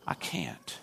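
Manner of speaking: whispered, barely voiced; hushed refusal. Missionary refusing the chief, in a whisper. Condemned man refuses softly.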